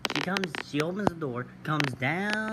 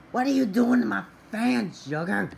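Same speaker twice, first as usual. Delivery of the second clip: loud, higher cry at the dog; exasperated yell; 5 semitones higher, 5 dB louder than usual. Retold or imitated. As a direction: call out over the mess. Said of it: "I'm like".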